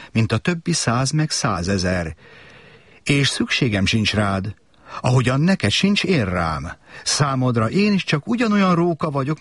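wise fox, tender and earnest; fox explaining. Acted. (a bölcs róka szelíden magyaráz)

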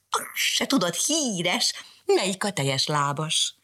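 a sly mewing jeer; meowed taunt. Acted. Cat meowing a taunt at Mariska. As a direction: meow the taunt. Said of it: "azt miákolta".

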